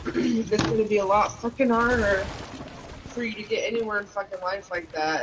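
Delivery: real tears catching the words; voice breaking. Real, not acted. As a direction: let the voice crack as you cry. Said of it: "I broke the fuck down".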